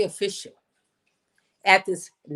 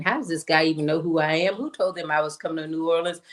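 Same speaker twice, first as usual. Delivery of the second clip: low, rapid inner chatter; inner committee voice; 4 semitones lower, faster than usual. Retold or imitated. Committee in the back of her head questioning the surprise, light quick chatter. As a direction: rattle off lightly voiced doubts, fast and low. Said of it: "the committee is saying".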